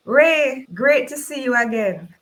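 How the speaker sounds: booming, friendly welcome; hearty greeting. Acted. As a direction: greet him like an old friend. Host greets arriving guest.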